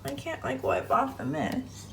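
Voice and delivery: soft early-morning whisper; hushed, barely voiced. Real, not acted. Early morning, others asleep.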